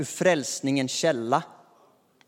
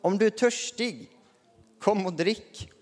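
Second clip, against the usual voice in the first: calling out; 5 semitones higher than usual. Acted. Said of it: "han bara ropar ut det här".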